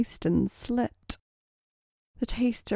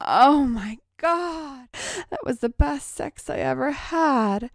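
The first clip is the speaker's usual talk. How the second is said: gasped exclamation; 7 semitones higher than usual. A narrator's reading. Molly reacts in delight, high gasped exclamation. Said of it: "When she gasped".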